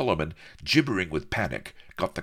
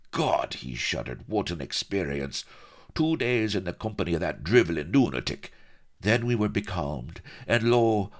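a hint of a blustering soldier's yarn; lightly voiced swaggering colonel; 4 semitones higher than usual. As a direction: spin it as an aggrieved old campaigner. Blood tells his tale.

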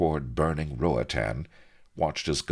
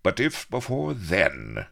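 eager cry; 7 semitones higher, 3 dB louder than usual. A narrator's reading. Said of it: "cried Avery".

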